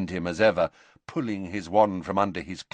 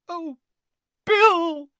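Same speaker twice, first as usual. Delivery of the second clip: high, loud cry of a horrified mother; anguished cry; 8 dB louder than usual. A narrator's reading. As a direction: cry his name out in anguish. Mother sees her mangled son.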